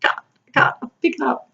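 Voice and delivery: strained, breathy mock groaning; hammed-up pained whine; mock back pain. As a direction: ham up a clown with a sore back. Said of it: "my back goes".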